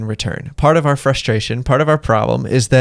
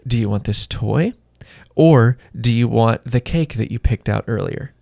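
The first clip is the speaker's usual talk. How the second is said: calm mom; 3 semitones lower than usual. Retold or imitated. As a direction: gently offer the child a choice. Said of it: "the mom just very calmly says".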